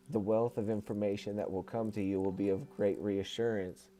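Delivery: measured reading, evenly phrased; book read-aloud. Acted. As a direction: reread the passage in steady, formal phrases. Rereads the passage after interruption.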